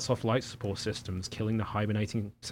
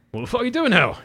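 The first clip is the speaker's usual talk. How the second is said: higher, louder mock Cockney accent; Cockney Hal; 13 semitones higher, 8 dB louder, faster than usual. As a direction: play a rowdy Cockney accent for laughs. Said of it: "this Cockney Hal".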